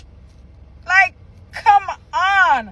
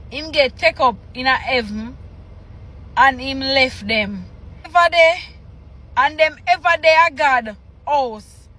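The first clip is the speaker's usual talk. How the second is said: reading scripture aloud; 2 semitones lower than usual. Acted. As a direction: read the patois haltingly, phrase by phrase. Reads patois scripture aloud.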